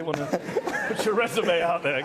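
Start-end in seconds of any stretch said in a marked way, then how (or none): 0.3-0.8 short laugh mid-sentence; amused laugh. Real, not acted. Interviewer joking about the minister's job prospects, amused laugh. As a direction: laugh at your own jab.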